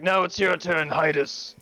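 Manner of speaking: lightly voiced booming chieftain; weighty tribal chief. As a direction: challenge the rival chief. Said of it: "he's like".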